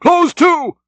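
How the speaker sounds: high called command; cried. A narrator's reading. Stubb ordering the boat alongside the whale, high cry. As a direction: sing it out sharp to the crew. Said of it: "he now cried".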